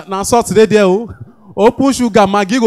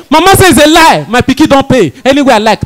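raised, indignant insistence from an offended elder; indignant mama; 4 semitones higher, 4 dB louder than usual. Retold or imitated. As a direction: insist loudly like a stubborn old mother who won't budge. Mama refuses to leave business class.

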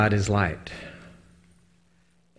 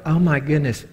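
higher, louder amazed exclamation; excited gasp; 5 semitones higher, 3 dB louder than usual. Retold or imitated. Preacher recalling the photo, amazed. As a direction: blurt it out in wonder at the photo. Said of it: "I'm going".

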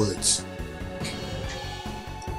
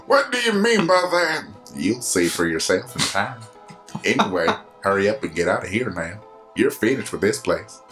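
lower, lightly voiced old sage; very old man; 5 semitones lower than usual. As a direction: explain like a calm old mentor. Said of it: "you gave him the old man voice".

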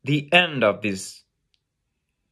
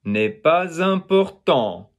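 "N'est pas important" in even beats, raised, long TANT; longer last syllable; 4 semitones higher than usual. Shown as a demonstration. Teacher showing syllable duration, even beats and long ending. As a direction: count out "N'est pas important" evenly, stretch the end.

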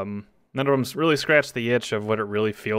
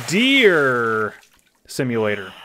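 grand announcement; 4 dB louder, slower than usual. Pretend. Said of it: "let me present to you".

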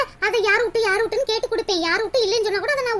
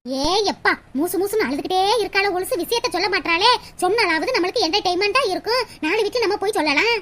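low-pitched grumble to herself; gossipy aside; 4 semitones lower than usual. Acted. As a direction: grumble privately, hungry for gossip.

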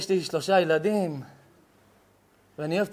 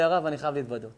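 hushed confession; 6 semitones lower, 7 dB quieter, much faster than usual. Retold or imitated. Retold shy confession.

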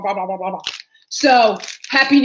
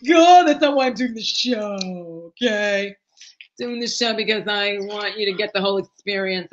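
mock retort; 3 semitones lower than usual. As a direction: fire back at the nagging viewers. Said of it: "And I'm like".

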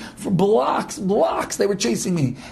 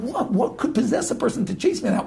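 laughing disbelief; 3 semitones higher than usual. Retold or imitated. Laughing retelling his question.

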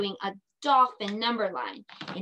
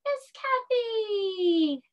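laughing; 10 semitones higher, much slower than usual. Real, not acted. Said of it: "yell out your name".

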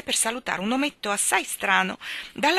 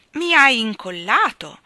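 loud, drawn-out, higher-pitched cry; shouted; 5 semitones higher, 10 dB louder than usual. A narrator's reading. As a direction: call it out slowly and forcefully. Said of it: "gridò Humpty Dumpty".

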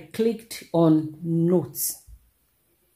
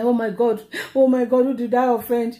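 higher, aggrieved retold wail; mock crying plea; 4 semitones higher than usual. Student asking who she offended, mock-tearful wail. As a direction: act out a tearful why-me. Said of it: "I was seriously crying".

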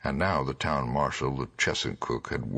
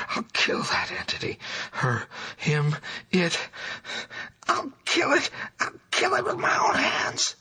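frenzied madman swinging from high cries to whispered threats; hysterical raving; 13 semitones higher than usual. A narrator's reading. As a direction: shriek out the horrors, slowing on the worst words. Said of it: "pouring out a meaningless, half-incoherent torrent of words".

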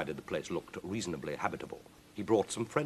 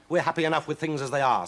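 lightly voiced rat, pitched higher; unhelpful rat; 7 semitones higher, 5 dB louder than usual. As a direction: refuse in a louder, higher rat voice. Avis the rat refuses.

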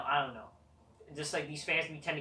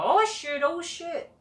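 sudden high yelp of surprise, louder; startled outburst; 14 semitones higher, 6 dB louder, slower than usual. Real, not acted. Vlogger suddenly startled while reviewing, high surprised yelp. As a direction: caught off guard, blurting it out high.

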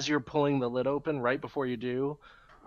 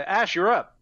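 higher, loud rallying call; 8 semitones higher, 12 dB louder than usual. Pretend. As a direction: call your ally to attack. Calling his companion into battle.

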